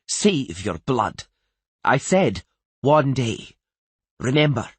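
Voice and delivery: scornful, emphatic royal reminder; slow, pointed dismissal, rising in force; snorted. A narrator's reading. Queen refusing the Earl's blood oath, snorted. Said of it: "snorted the queen".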